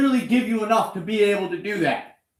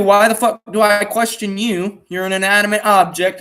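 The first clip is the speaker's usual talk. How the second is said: louder, frustrated, shouting at the bike; loud exasperated rant; 6 dB louder than usual. Real, not acted. Man yelling at his dead dirt bike in exasperation. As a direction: vent at the broken machine.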